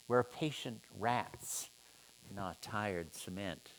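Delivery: measured, rhythmic poetry reading; poem reading. Shown as a demonstration. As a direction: read as verse with a steady beat. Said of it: "the prosody".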